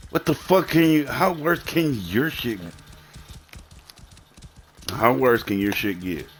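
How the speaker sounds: high, exasperated challenge; incredulous outrage. Real, not acted. Answering a claim of having suffered worse, incredulous.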